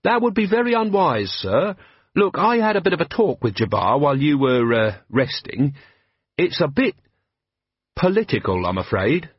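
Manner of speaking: put-on eager young captain, respectful; lightly voiced earnest young man; Carrot, earnest young officer. Carrot's voice in the story.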